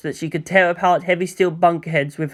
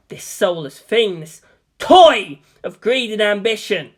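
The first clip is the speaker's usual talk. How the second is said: angry accusation; 3 semitones higher than usual. Acted. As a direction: lash out at them in fury. Shinji confronts them through speakers.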